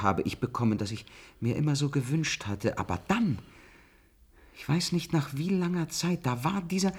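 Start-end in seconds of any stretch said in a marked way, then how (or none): none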